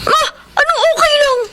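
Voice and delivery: high, laughing disbelief; incredulous laugh. Acted. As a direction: scoff with a laugh at the idea. Pia reacts in disbelief. (natatawang hindi makapaniwala)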